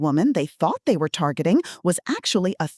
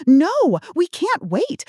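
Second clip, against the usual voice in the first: a sudden loud, much higher no; panicked scammer; 9 semitones higher, 4 dB louder, slower than usual. Acted. Scammer panicking at the granny's call-back idea, loud and high. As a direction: blurt it out in alarm. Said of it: "David panicked".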